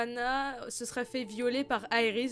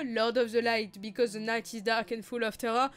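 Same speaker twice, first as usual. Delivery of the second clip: put-on English accent; 3 semitones lower than usual. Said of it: "mon magnifique accent anglais".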